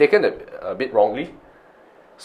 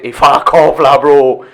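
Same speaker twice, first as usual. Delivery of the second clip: friendly banter; 4 semitones higher, 6 dB louder, slower than usual. Shown as a demonstration. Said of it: "the way you say it".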